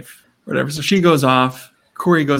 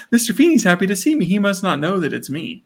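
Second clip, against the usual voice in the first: higher, quick wondering voice; taken aback; 5 semitones higher than usual. Retold or imitated. Eric amazed his teacher is glad, taken aback. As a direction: act out puzzled amazement.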